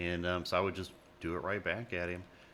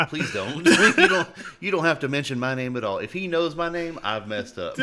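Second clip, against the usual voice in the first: loud, high pleading through laughter; laughing plea; 8 semitones higher, 12 dB louder than usual. Retold or imitated. Begging the regional not to mention my name, laughing plea. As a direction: beg them off, cracking up.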